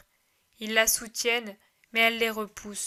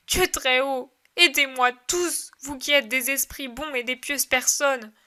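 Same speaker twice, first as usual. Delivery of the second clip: anguished plea; 4 dB louder than usual. Acted. Mary in anguish.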